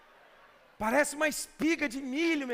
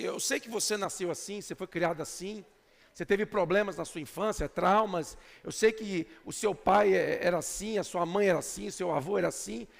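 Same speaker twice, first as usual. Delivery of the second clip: gentle, tender plea; 6 semitones lower than usual. Real, not acted. Believer consoling a neighbour, gentle tender voice. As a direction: speak it like comforting a hurting friend. Pastor dictates gentle words.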